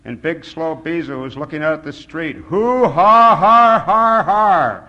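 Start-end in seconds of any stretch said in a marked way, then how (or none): 2.4-4.8 very loud, high hoo-ha-has; booming performed laughter. A narrator's reading. Narrator acts big Bisou laughing, roaring it out. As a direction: roar out every laugh syllable. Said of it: "louder than anybody".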